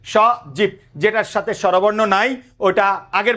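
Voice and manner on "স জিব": স alone, then জিব closed on the b; two beats, স and জিব, b joined to the second; joined final consonant. Shown as a demonstration. Teacher dividing a name into syllables, স and জিব apart. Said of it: "জয়ের সাথে উচ্চারণ করে ফেলবা".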